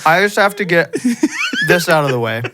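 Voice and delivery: talking while chewing; words round a mouthful of food; chewing noisily. Real, not acted. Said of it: "I'm sorry I'm eating".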